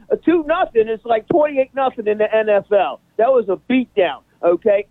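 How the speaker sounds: host's put-on English accent for the whole soccer rant; a lightly done English accent, talking up the US team. A co-host rants about the US team in a mock English accent. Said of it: "same accent!".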